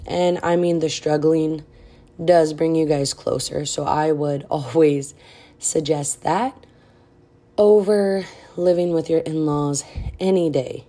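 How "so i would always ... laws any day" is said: breathless pregnant speaker; out of breath. Real, not acted. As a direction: talk short of breath. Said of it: "I'm sorry I sound out of breath".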